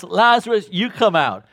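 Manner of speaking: Lazarus shouted high and loud; loud call. Acted. Jesus singles out Lazarus at the tomb, loud summoning call. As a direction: summon him by name, full voice. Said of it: "Jesus specifies and says".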